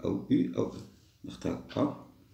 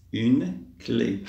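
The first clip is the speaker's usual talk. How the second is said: drawn-out "une", pause before "clé"; slow word model. Shown as a demonstration. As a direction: separate the two words clearly. Teacher models the word slowly. (mots bien séparés)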